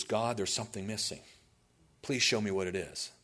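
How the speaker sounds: low, subdued, sincere plea; humble prayer. Acted. Preacher voicing Cornelius's prayer to God, humble and low. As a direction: pray it softly and simply.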